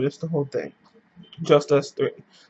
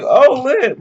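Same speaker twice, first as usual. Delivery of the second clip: mock hype; 9 semitones higher, 6 dB louder than usual. Reacting to friend's kiss news.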